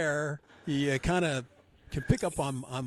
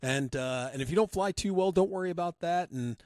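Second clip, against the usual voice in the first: eager club president; 5 semitones higher than usual. Retold or imitated. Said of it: "And then he was like".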